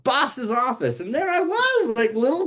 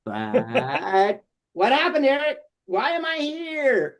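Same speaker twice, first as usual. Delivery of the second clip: Foxford; 7 semitones higher, slower than usual. Acted. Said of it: "And I was like".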